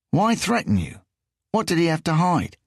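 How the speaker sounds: high, whiny English voice; whiny Englishman. A narrator's reading. English thief quizzes Riso in a high whiny voice. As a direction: push it up into a whine.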